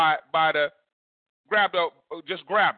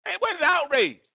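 preaching outcry; 12 semitones higher than usual. Acted. Preacher's climactic question.

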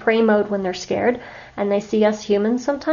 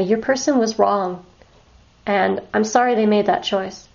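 judgmental tone. Shown as a demonstration. To a shelter animal, gently blaming its person, judgmental. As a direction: let a little judgment of their people slip in. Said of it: "I'm doing this inflection on purpose".

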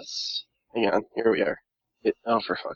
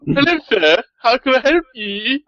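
higher-pitched, obliging servant voice; servitor character; 8 semitones higher than usual. Acted. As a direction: greet them as a put-on helper, pitched up. Plays servitor greeting a visitor.

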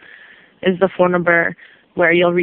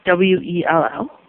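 spelling it out; slower than usual. Real, not acted. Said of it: "Uh, V A N".

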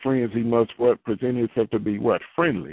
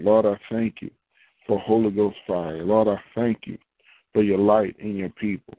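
spoken prayer. Acted. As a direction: pray it out earnestly over the people. Leads a prayer.

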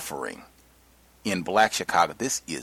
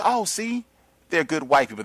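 high-pitched, louder mimicking of a naive believer; mock relief; 7 semitones higher, 5 dB louder than usual. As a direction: imitate someone eagerly pointing it out, pitch jumped up. Mimicking a naive response to good whites.

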